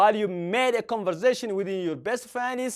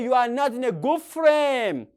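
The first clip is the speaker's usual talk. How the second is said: slow, each word set apart; slow teacher model; slower than usual. Shown as a demonstration. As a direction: model it slowly. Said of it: "Or you can say".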